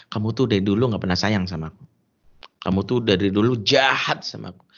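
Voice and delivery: lightly acted wounded wife's accusation; mock complaint, stretching the key word; istri yang merajuk. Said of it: "keluarlah kalimat saktinya". (istri ngambek, menuduh suami)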